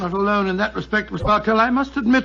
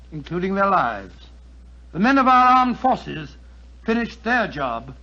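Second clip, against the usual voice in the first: earnest formal wartime appeal; rally the audience with sincere conviction; public appeal. Acted. Doctor Watson urging listeners to buy victory bonds, earnest appeal. War bond appeal speech.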